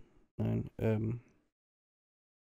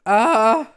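sneezing; 9 semitones higher, 14 dB louder than usual. Real, not acted. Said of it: "Aber ich muss niesen".

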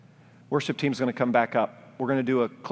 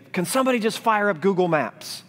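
exasperated plea; 9 semitones higher, 3 dB louder than usual. Retold or imitated. Frustrated dad lost on Sanibel.

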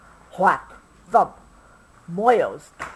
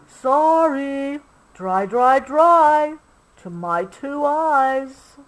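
high, louder drawn-out dry dry; giraffe voice; 7 semitones higher, 4 dB louder than usual. A narrator's reading. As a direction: giraffe character, sing-song. Giraffe Tenda answers.

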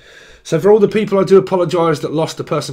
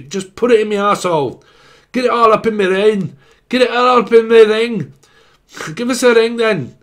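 higher, louder mock Scottish brogue; 5 semitones higher, 5 dB louder than usual. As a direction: ham up a bawdy Scottish accent. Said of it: "Is it Scottish?".

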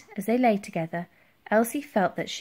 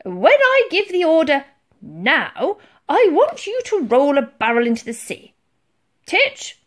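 loud, high admiral's orders; commanding; 8 semitones higher, 8 dB louder than usual. A narrator's reading. Admiral orders barrels rolled into the sea, commanding. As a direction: call out orders across the deck.

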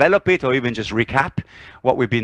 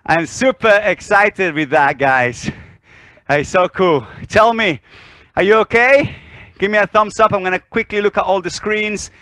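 breathless after dancing; out of breath; 4 semitones higher, 3 dB louder than usual. Real, not acted. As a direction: talk while catching your breath. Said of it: "Why are you out of breath?".

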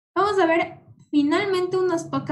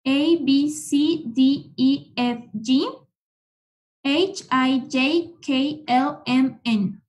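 letters run through briskly in two groups; quick recitation; much slower than usual. Shown as a demonstration. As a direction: rattle off the letters for repetition. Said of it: "vamos a repetir rapidito las letras". (repaso rapidito de las letras)

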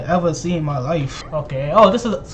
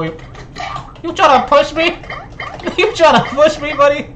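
slow, higher mock challenge; mock tough guy; 8 semitones higher than usual. Taunting a player who tries to push him. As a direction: play the offended tough guy.

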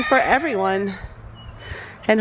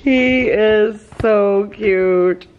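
very slow, drawn-out gush; much slower than usual. Real, not acted. Laughing at her puppy's antics, gushing. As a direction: draw every word out, adoring the puppy.

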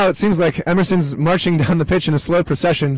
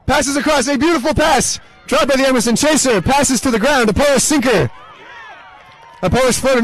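excited play-by-play; 6 semitones higher than usual. Real, not acted.

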